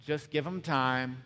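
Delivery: mock the been-there couple, low and tired; jaded married couple. Married couple dismissing young love, low weary voice. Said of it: "people who've been married for thirty years goes".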